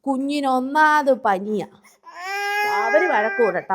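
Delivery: teary voice with a sob; tearful. Acted. Mother crying as she carries the child away, tearful. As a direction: soothe the child while crying.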